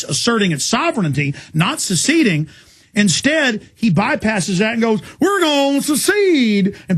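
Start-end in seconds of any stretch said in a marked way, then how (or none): 5.2-6.7 higher, slow fake Texan good old boy voice; mock a politician's put-on Texan accent. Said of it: "puts on a fake, you know, good old boy accent".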